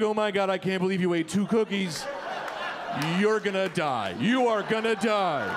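imitating her grave concern; alarmed warning. Party girl to man who ate two cookies, alarmed warning. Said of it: "was trying to warn me".

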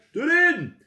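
loud high call; calling the spell. Acted. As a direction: sing out the magic word. Spell word called out. (luid en hoog roepen)

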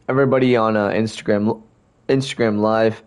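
talking through hiccups; hiccuping between words. Real, not acted. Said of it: "I keep hiccuping".

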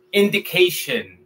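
indication with a clear English A sound, ending shun; English pronunciation. Shown as a demonstration. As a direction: model the English word indication. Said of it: "se convierte en".

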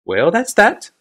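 thoughtful. A narrator's reading. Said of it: "said thoughtfully".

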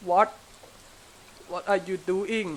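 usual speaking voice

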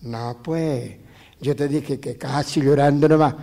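retold protest. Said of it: "la Hilda dijo".

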